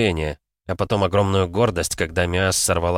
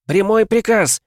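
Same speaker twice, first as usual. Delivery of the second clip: very high, loud insistence; forceful captain's yell; shouted order; 14 semitones higher, 6 dB louder, slower than usual. A narrator's reading. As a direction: hammer the command home. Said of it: "крикнула она".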